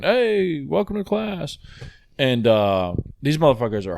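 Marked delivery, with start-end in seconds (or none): 0.0-1.6 high chirpy fitness instructor; perky instructor voice. Retold or imitated. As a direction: greet the class like a peppy trainer. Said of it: "the T V would cut on saying".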